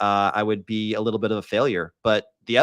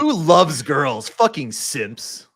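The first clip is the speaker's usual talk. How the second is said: mocking voice; 4 semitones higher, 4 dB louder, much slower than usual. Mocking friend's simpy photos.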